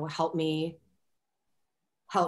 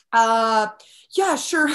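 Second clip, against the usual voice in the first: higher, louder, flustered mock agreement; caught-off-guard yes; 5 semitones higher, 9 dB louder, much slower than usual. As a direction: blurt it out like you're bluffing. Her nervous reply to director.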